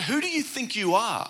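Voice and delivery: lightly acted disbelief; mock incredulous. Shopper questioning a stranger's offer, incredulous.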